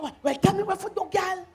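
impatient. Acted. Friend demands the promised advice, impatient. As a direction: push her to get on with it.

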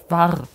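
"War" set apart as its own low word; stress on WAR. Shown as a demonstration. Player correcting how well the game used to run, stressed "War". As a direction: land firmly on "War". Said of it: "Die Betonung ist auf war".

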